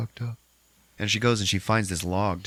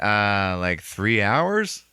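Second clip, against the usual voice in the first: slow, halting mock reply; unsure, dragging out the words; clueless drawl; 4 dB louder, much slower than usual. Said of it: "James is like".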